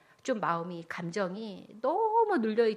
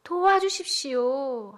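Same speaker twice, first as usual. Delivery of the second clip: acted prayer; 4 dB louder than usual. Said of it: "하나님께 기도한 거지요".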